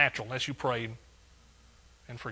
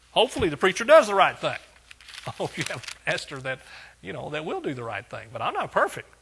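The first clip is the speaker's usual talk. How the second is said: full-force preaching; 5 dB louder than usual. Acted. Pastor preaching Paul's words to the church, full force. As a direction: thunder the verse to the congregation.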